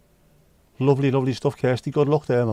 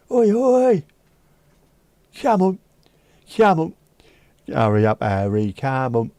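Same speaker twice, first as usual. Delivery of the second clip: shouting out; 3 semitones higher, 5 dB louder than usual. Retold or imitated. Calling his mate Harry to hurry to the pub, loud shout. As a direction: yell to get his mate moving.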